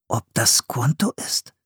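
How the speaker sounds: leises, grübelndes Flüstern; nachdenklich geflüstert. A narrator's reading. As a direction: vor sich hin flüstern. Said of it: "überlegte Philipp". (Philipp überlegt flüsternd)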